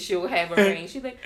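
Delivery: normal talking voice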